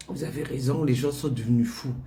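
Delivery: lightly voiced old doctor humouring madame; old doctor agreeing. Mother voices doctor and herself.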